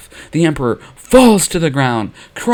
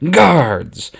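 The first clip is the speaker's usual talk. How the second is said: commanding shout; 3 semitones higher, 5 dB louder than usual. Acted. Emperor summons his guards.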